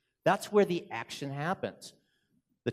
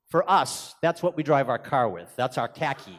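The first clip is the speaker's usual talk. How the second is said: Boston accent. Shown as a demonstration. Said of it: "my accent is even stronger".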